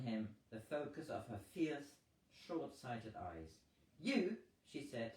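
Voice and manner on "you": surprised. Acted. Indignant woman confronts captain.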